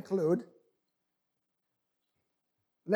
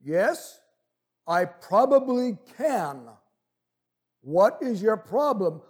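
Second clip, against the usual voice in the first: slow, measured voice from above; lightly voiced calm, unhurried reply; deep calm voice; 4 dB louder, slower than usual. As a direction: answer with long stretched words. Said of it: "And the voice said".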